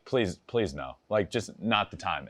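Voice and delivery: hushed please no; quiet pleading. Retold or imitated. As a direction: beg under your breath. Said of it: "there's gotta be times where it's like".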